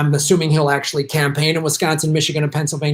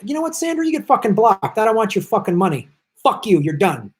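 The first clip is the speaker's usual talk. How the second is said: real anger at a viewer; 5 semitones higher than usual. Real, not acted. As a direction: tell off the donor, rising in pitch. Blocking a donor mid-stream.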